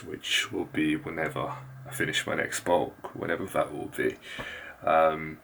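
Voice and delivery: hushed so sleepers stay asleep; soft, low late-night voice; keeping voice low. Real, not acted. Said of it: "I'm gonna have to keep my voice very low".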